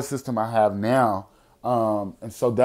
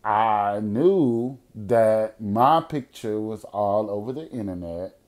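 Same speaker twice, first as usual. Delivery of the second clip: somber; 3 semitones lower, slower than usual. Real, not acted. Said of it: "I was really scared".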